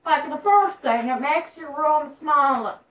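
hint of an old-time Southern aristocrat; put-on Southern gentry accent. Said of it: "that accent was great. It's like a Southern aristocrat".

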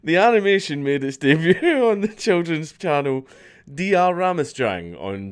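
laughing through the same sentence; cracking up mid-line. Real, not acted. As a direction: giggle breaks the read. Re-reads line while laughing.

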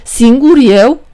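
"Singur eu" asked slowly, rising at the end; puzzled echo. Acted. The devil repeats Păcală's strange name, puzzled. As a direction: turn the odd name back into a slow question.

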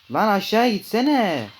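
real annoyance at the crab; frustrated yell. Real, not acted. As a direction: snap at the game to go down. Yelling at the game.

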